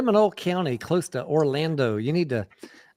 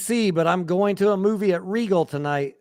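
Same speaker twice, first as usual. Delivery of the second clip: higher, louder mock quote voice; 6 semitones higher, 4 dB louder than usual. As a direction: mimic a smug investor, pitched up. Mocking hypocritical investors' quote.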